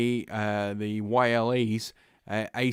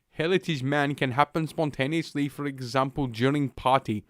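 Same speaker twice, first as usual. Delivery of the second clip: mock Finnish accent; 3 semitones higher than usual. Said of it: "I have no idea what the Finnish accent is like".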